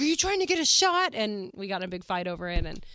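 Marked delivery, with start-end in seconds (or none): 0.0-1.1 higher, louder mock quote of John; mocking boyfriend. Retelling the car fight, mimicking John's alarmed question. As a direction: throw his line back in a put-on voice.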